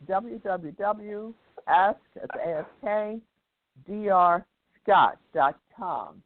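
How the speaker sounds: letters spelled out slowly; slow spelling. Real, not acted. Spelling out web address slowly.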